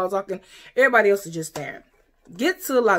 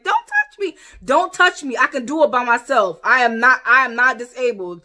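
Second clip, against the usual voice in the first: indignant shout; 3 semitones higher, 5 dB louder than usual. Retold or imitated. Her own outburst retold.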